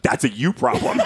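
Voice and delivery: amused mock yell; laughing sass; laughing retort. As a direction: toss it back with a laugh. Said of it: "and I'm yelling".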